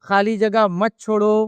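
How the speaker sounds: slow, measured mosque announcement; imam's announcement. Retold or imitated. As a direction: announce it slowly to the whole congregation. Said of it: "اعلان ہوتا ہے".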